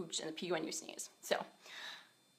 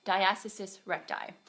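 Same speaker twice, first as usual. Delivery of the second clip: swollen mouth, second try. Real, not acted. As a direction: say it again carefully through swelling. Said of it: "my mouth is swollen with this teeth stuff".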